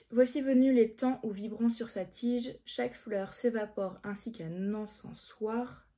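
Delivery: slow, deliberate verse; measured reading to memorise; poem recitation. Acted. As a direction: recite it slowly, phrase by phrase.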